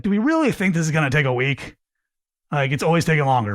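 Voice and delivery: quick, doubting, sure of the answer; judgmental. Shown as a demonstration. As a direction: ask it as if the answer is obvious. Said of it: "if you hear the difference in inflection".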